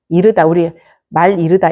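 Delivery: ordinary talk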